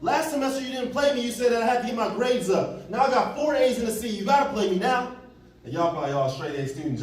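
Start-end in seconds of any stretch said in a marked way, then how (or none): 0.0-5.1 strut in and demand playing time; cocky demand. Retelling demanding coach to play him.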